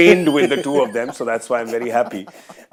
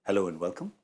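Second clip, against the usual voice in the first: railway announcement; 7 semitones lower, 12 dB quieter than usual. Pretend. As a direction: greet like a platform PA. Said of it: "address you like I am a railway announcement".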